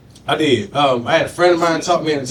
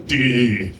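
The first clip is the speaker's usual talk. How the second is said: put-on white boy dude voice; 5 semitones lower than usual. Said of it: "develop that voice".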